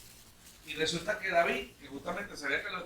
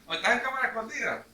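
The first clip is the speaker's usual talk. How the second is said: higher, louder, quick mock scare; preacher acting David spooking the king, playful loud boo; 6 semitones higher, 8 dB louder than usual. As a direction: jump out and spook him for fun. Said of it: "Le dijo".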